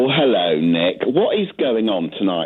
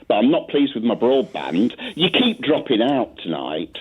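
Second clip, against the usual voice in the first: over a landline phone. Real, not acted. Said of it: "it sounds like you're talking to me on a landline".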